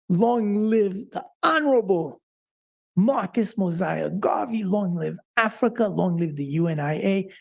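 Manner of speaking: declaimed long live salutes; rally the crowd with each name; rousing salutes. Real, not acted. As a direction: ceremonial closing salute. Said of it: "please repeat after me".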